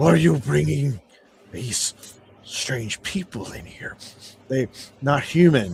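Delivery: strange, weird hyena-like creature voice. Voicing a gnoll who sneaks up behind the party: weird hyena-like voice. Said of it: "in a weird kind of hyenaed voice".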